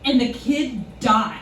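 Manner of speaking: slow, mildly indignant explanation; understated imitation of indignation; retold indignation. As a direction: spell it out slowly as an affronted clerk. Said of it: "the indignation in her voice".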